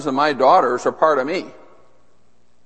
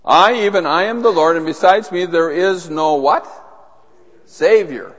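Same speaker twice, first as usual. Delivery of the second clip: proclaiming as God, a touch louder; lightly voiced God; 3 semitones higher, 5 dB louder than usual. Preacher reads God's words to congregation, proclaiming. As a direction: speak with God's authority, declaring. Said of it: "God is saying".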